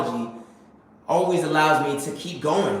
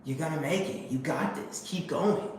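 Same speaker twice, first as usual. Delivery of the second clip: soft inner voice, much softer; 8 dB quieter than usual. Retold or imitated. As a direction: murmur it like a voice at the back of your mind. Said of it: "something telling me".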